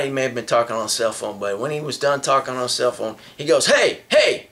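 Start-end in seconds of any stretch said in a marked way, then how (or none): 3.7-4.5 retold yell. Guy on bus yelling out.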